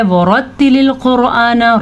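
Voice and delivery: वरत्तिलिल कुरआन with a rounded, full r; वरत्तिलिल कुरआन, heavy r. Shown as a demonstration. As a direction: recite वरत्तिलिल कुरआन slowly, thickening each r. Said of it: "रॉ को पुर पढ़ना है".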